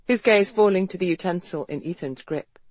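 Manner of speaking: ordinary delivery, nothing marked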